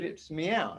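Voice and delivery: imitating a meow. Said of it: "if it wants food".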